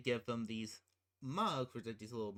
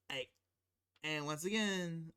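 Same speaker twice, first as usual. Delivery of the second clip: usual speaking voice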